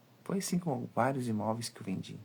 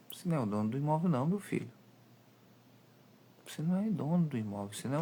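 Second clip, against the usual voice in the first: scolding; 5 semitones higher, much faster than usual. Real, not acted. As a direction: put the greedy broker in his place. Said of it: "scolding the broker".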